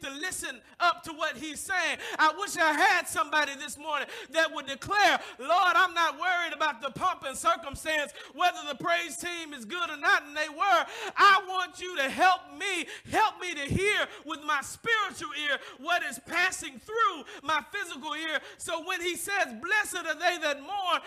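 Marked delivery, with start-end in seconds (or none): 2.2-18.4 loud, rising fervent plea; loud preacher voicing a congregant's prayer; preaching at full force. 19.6-21.0 proclaimed. Acted. Quotes scripture then ponders it.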